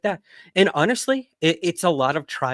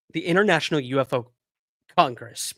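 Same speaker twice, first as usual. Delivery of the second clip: speaking through hiccups; words broken by a hiccup. Real, not acted. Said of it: "hiccuping like crazy".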